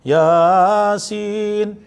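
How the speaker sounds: Yasin with ya stretched, sin short; Yasin, ya dragged out and sin clipped; wrong long ya. Shown as a demonstration. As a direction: demo the common error on Yasin. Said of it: "dia yanya panjang, sinnya pendek".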